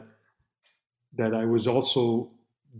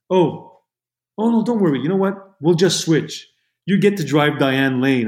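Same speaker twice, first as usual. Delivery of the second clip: retold woman on phone; 3 semitones higher than usual. Woman on the phone telling trainee not to worry, lightly imitated. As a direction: imitate her, quick to wave away the worry. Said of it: "it was a woman. She goes".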